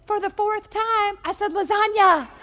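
a wife at the end of her patience; mock-weary wife, laughter breaking through; exasperated wife. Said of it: "She looks at him and says".

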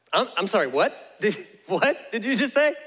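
mock baffled double take; halting, incredulous questioning. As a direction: ask as if you can't believe your ears. Joshua stunned by God's odd plan.

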